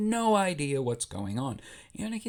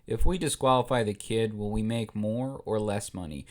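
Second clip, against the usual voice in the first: Jabba; 5 semitones lower than usual. Acted. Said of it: "Jabba looks over at his chief bookie and says".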